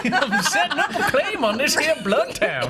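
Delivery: put-on high, slow old-timer prospector voice; hammy gold-rush miner drawl. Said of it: "I envision, like, an old prospector".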